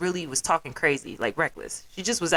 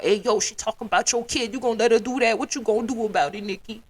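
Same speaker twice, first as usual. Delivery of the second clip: higher-pitched instigator's voice; a rapper; 4 semitones higher than usual. Retold or imitated. Meddler stirring another rapper up over gossip, mock instigating. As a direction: egg her on, lightly imitating a meddler. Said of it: "he got in that shit again with another rapper".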